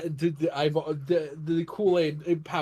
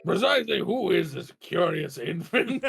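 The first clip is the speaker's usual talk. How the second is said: judge voice. Acted. Judge voice in courtroom game.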